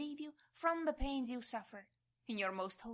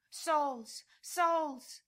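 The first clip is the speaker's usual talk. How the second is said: a loud, rising call that climbs higher; loud cry; 5 semitones higher, 7 dB louder than usual. Acted. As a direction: call out to the lost souls with all your strength. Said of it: "I too want to cry out with you".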